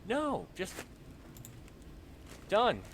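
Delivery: high exasperated voice. Retold or imitated. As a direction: throw up your hands, fed up. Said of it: "I'm like".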